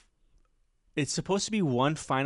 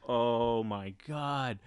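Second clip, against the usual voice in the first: slow, softer, drawn-out dismay; appalled; 5 dB quieter, much slower than usual. Retold or imitated. Comic reacting to the worst act she saw, slowly appalled. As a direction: stretch it out in retold horror.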